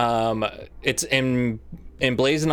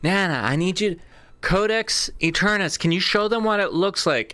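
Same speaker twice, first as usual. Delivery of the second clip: speaking into her ear; 5 semitones higher than usual. Acted. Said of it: "she gets close to her ear".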